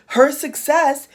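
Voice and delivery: slow, choking on emotion; words catching in the throat, slowly; real emotion welling up mid-sentence; choked up. Real, not acted. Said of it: "excuse me, I'm getting emotional".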